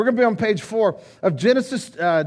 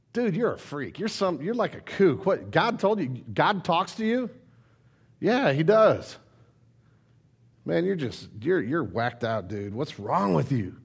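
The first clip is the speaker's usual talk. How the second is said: scoffing neighbor; 7 semitones lower, 5 dB quieter than usual. Pretend. Neighbor mocking Noah.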